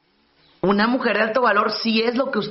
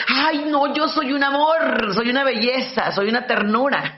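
mock sweet bride. Mocking self-praising bride.

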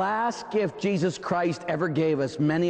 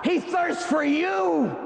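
higher, slow, pleading proclamation; fervent preaching; 9 semitones higher, slower than usual. Acted. Preaching at full force.

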